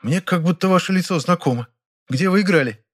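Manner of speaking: put-on high, haughty older actress, irritated; voiced Ranevskaya. A narrator's reading. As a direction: lecture him with theatrical scorn. Ranevskaya figure voice. (высокий надменный голос Раневской, раздражённо)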